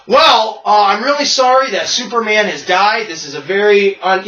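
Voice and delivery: lightly voiced polite eulogy; Hulk as normal person. Hulk reading his notes at Superman's funeral, normal voice. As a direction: drop into ordinary, civil speech. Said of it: "it goes right into, like, a normal person".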